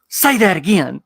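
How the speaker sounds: imitated astonishment with a sharp gasp; amazed. Volunteer asks pastor to repeat, amazed.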